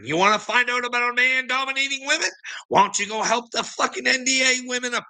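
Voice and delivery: high, indignant demand; heated challenge. Real, not acted. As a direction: pitch up and jab the question at him.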